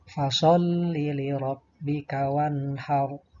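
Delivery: measured verse recitation with held consonants; Qur'an recitation. Shown as a demonstration. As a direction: recite it carefully as a model for pupils. Contoh bacaan ayat. (tilawah tartil untuk murid)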